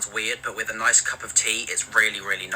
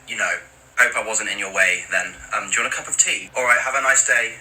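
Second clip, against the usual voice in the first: polite awkward Brit. Pretend. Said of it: "Maybe something like this".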